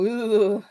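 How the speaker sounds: a brief imagined "ooh" of alarm; mock freak-out cry. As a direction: act out freaking out, half-hearted. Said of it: "freak out".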